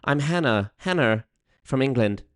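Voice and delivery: lightly put-on English accent; mock English accent. Imitating Hannah from England, mock English accent. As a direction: imitate an English viewer, softly. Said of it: "How's my accent?".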